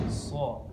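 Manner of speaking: "So" said thick and heavy; thick, rounded Arabic shad on "So". Shown as a demonstration. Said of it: "Jadi dibacanya tebal".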